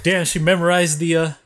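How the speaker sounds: amazed reaction to grandma; stunned disbelief. Retold or imitated. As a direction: catch her acing the quiz in disbelief. Stunned thought about quiz memorizing.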